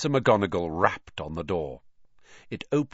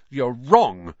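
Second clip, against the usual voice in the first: said aloud; 2 semitones higher, 6 dB louder than usual. Acted. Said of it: "he said aloud".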